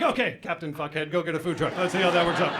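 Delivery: mock-encouraging, mildly condescending; patronizing. Wife humours his food truck plan, patronizing. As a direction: humour him as if he were a fool. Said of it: "Very patronizing".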